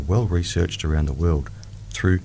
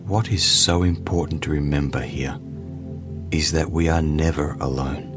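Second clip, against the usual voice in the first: guided meditation; slower than usual. Acted. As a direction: ease the listener into calm.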